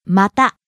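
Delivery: また low on ま, rising on た; rising pitch accent. Shown as a demonstration. Teacher models vocabulary, また rising on the last syllable た. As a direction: lift the pitch on た in また. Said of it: "Rising on the last syllable ta".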